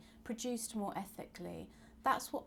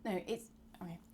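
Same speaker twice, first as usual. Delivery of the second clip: whispered to self; faster than usual. Real, not acted. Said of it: "I lost my train of thought".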